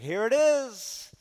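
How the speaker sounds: awed expectation. Retold or imitated. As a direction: stretch it out like the moment has come. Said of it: "And Elijah's like".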